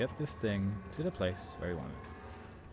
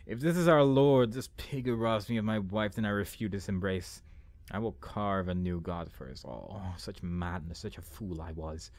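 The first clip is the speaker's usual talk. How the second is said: slow theatrical recitation, sinking lower; dramatic journal reading; 4 semitones lower than usual. Acted. Player reading a journal of renounced faith, dramatic reading. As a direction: open forcefully, then settle into brooding.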